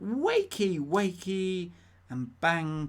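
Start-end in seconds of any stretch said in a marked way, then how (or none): 0.0-1.7 high, loud play call; mock wake-up shout. Host reading the option to rouse the sleepers, mock shout. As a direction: call it out loudly to pretend sleepers.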